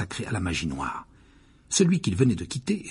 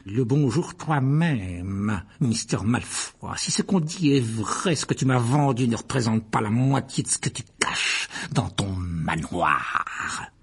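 rancunier et méprisant; slower than usual. Acted. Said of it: "abandonna ses manières onctueuses".

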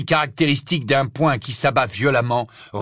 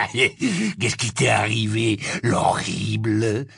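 mocking werewolf; much slower than usual. Werewolf taunts prisoner.

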